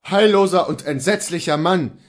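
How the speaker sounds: cry of dismay. A narrator's reading. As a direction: cry out, confused and shaken. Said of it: "rief Luther durch diese Worte verwirrt".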